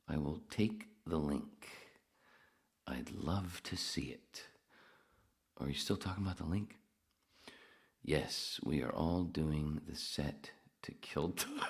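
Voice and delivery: drawn-out, sluggish read with long pauses; reading slowly. Real, not acted. Host reading chat as the edible kicks in, slow halting read. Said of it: "I am reading so slow".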